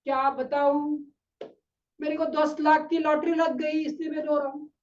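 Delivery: mild imitation of a man easing off his sobs; subdued mock crying. Crying man explaining his lottery win, subdued mock weeping. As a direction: lightly act the tearful stranger. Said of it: "फिर थोड़ा सा रोने का थोड़ा सा कम करता है".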